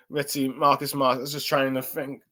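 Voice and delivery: hoarse, voice giving out; losing his voice mid-sentence. Real, not acted. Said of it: "starting to lose my voice".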